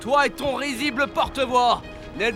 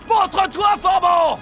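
loud taunting challenge; shouting; 5 semitones higher, 4 dB louder, slower than usual. Acted. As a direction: call him out loudly. Challenging hidden pirate.

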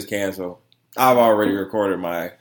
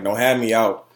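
laughing imitation; 7 dB louder than usual. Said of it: "he was like".

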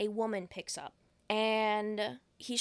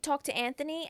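stuttering; 4 semitones higher, 10 dB louder than usual. Retold or imitated. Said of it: "he starts stuttering".

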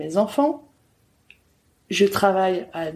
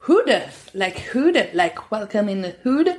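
French speaker showing off English accent; playful English-accented pronunciation. Shown as a demonstration. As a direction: put on an English accent, self-mocking. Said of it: "j'ai un très, très bon accent".

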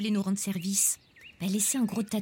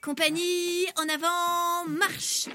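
commandement militaire; 6 semitones higher, much slower than usual. Acted. Colonel lance la marche.

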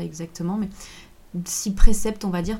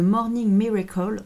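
« Morning Miracle » avec un accent anglais un peu forcé, franchement français; accent anglais raté; 3 semitones higher, 4 dB louder than usual. Shown as a demonstration. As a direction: tente l'accent anglais, sans vraiment y arriver. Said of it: "saluerez ce magnifique accent anglais". (accent anglais approximatif et assumé)

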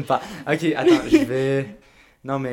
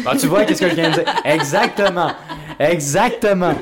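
laughing; 6 semitones higher, 6 dB louder than usual. Real, not acted. Laughing at his own joke.

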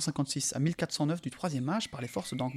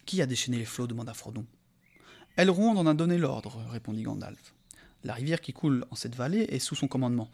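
voix de conteur posée; lecture de récit. A narrator's reading. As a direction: lire le passage comme un conte. Reads the novel aloud. (narration calme et posée)

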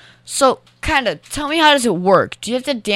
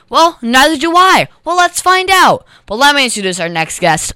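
ordinary talk, nothing marked

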